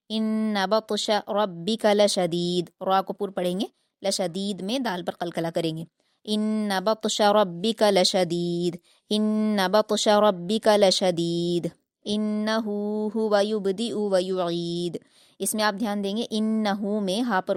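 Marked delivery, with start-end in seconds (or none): 0.1-2.7 slow, melodic Quran recitation; tajweed recitation. Shown as a demonstration. Teacher reciting the verse for the student. 6.2-15.0 slow, melodic Quran recitation; tajweed recitation. Shown as a demonstration. Teacher reciting the verse for the student.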